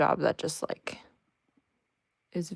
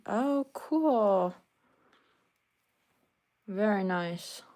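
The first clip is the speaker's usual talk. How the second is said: talking around a needle in her mouth; 3 semitones higher, 3 dB quieter, much slower than usual. Real, not acted. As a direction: speak with a needle held in your lips. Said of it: "Sorry, I have a needle in my mouth now".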